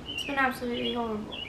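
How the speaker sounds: put-on English accent, said quietly; quick, soft aside in a mock English accent. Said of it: "that's my English accent".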